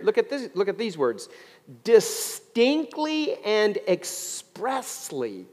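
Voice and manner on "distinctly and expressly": DISTINCTLY and EXPRESSLY slow, stretched and raised; emphatic stress. Real, not acted. Preacher showing congregation the verse's words, "distinctly" and "expressly" slow and emphatic. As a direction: spell out "distinctly" and "expressly" with long, high stressed syllables. Highlights scripture words after look remark.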